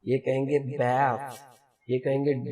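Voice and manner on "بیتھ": American accent. Shown as a demonstration. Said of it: "جیسے آپ امریکہ".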